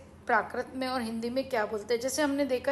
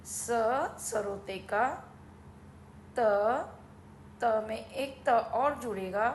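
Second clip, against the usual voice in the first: sounding out words; 3 dB quieter than usual. Shown as a demonstration. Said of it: "शक्ति को लिखा जाता है सत्ती".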